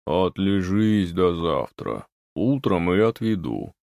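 lightly voiced curt wood spirit. A narrator's reading. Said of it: "Отрезал Леший".

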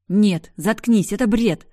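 loud, slow, furious outburst, pitch up; angry outburst. Acted. Sister explodes at brother's claim she loves him, shouting. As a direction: explode at him, dragging each word. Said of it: "взорвалась я".

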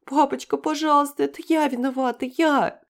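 высокий громкий детский плач-мольба; умоляй папу сквозь слёзы; мольба девочки. A narrator's reading. Девочка в слезах умоляет отца. (плачущая девочка умоляет)

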